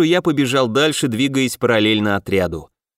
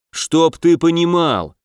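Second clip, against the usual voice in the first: angry outburst; 4 semitones higher, slower than usual. Acted. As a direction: throw it at him in rage. Knight furious at Max.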